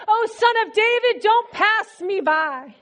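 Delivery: mild imitation of calling out to someone passing; retold crying out. Preacher voicing blind man begging Jesus not to pass, crying out. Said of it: "He begins to cry out".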